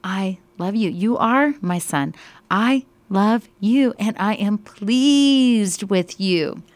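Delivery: fervent proclamation. Acted. Teacher re-voicing the Father's words to Sabrina, fervent, loud and slowing. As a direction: proclaim it with full heart, stretching the ending.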